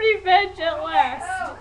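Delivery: laughing. Real, not acted. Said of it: "laugh cry".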